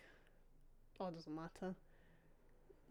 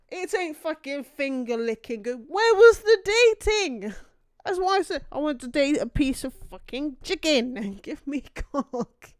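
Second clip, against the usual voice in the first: loud, high furious shouting, dragged out; furious rant; 6 semitones higher, 14 dB louder than usual. Real, not acted. Streamer shouts in fury at the dating game. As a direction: rage at the game at full volume.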